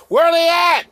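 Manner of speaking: loud, high-pitched demand; real indignant shout; indignant calling out. Real, not acted. Demanding where named preachers are.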